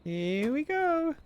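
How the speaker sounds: high, drawn-out mimicry; mock echo. Player echoing the game character's line, high stretched imitation.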